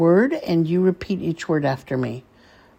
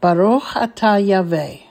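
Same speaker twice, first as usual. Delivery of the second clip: measured blessing with long pauses between phrases; deliberate teacher's model of a blessing; slowly, phrase by phrase. Shown as a demonstration. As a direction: recite each phrase carefully for repeating. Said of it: "I will say it slowly".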